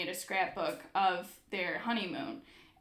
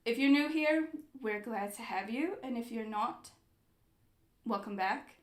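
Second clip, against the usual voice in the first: hammed-up English accent for a greeting; put-on English accent; 3 dB louder than usual. Host opening the travel video, put-on English accent. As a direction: welcome them in a mock-English accent. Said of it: "switch to an English accent".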